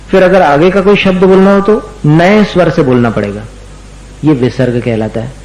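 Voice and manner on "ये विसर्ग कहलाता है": ordinary talk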